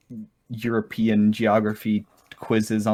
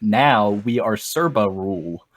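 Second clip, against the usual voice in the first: lightly hammed broken English; 8 dB louder, slower than usual. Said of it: "the official lyrics".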